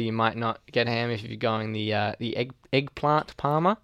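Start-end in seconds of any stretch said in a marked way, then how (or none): 2.7-3.4 EGGPLANT with a long "ah" in plant, rising; the other person's eggplant. Retold or imitated. Naming the dish for a friend, long-ah eggplant. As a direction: say eggplant as "egg-plahnt". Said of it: "You would say eggplant".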